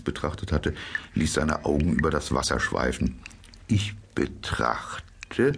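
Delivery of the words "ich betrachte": whisper. A narrator's reading. Mole answers dreamily.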